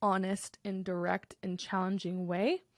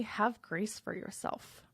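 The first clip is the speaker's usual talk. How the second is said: slow, deliberate; slower than usual. Shown as a demonstration. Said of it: "And finally".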